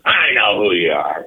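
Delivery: retold booming growl at a rookie; imitating a booming voice. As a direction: boom it out like a gruff old ballplayer. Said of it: "he had a voice that would boom".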